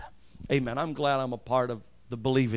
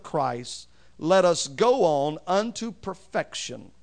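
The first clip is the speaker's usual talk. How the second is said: raised-pitch, emphatic Bible reading; scripture reading; 5 semitones higher, 4 dB louder than usual. Acted. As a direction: read the verse out with deliberate stresses. Reads scripture aloud to congregation.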